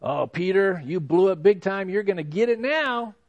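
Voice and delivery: Jesus imagined scolding Peter, mock taunt. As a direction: tease him as if he's in trouble. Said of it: "a look of condemnation".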